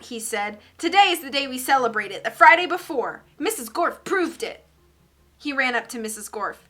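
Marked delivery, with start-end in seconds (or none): 0.8-4.6 put-on excited boy. Stephen excited, proving point.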